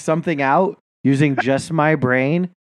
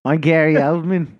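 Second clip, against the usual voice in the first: mock Australian accent. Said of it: "dying to do an Australian accent".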